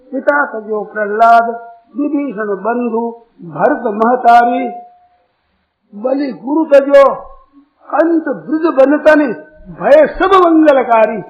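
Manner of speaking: measured devotional verse, drawn out in places; verse recitation. Real, not acted. Preacher citing scripture to the congregation, measured verse recitation. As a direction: recite the couplet in spaced phrases.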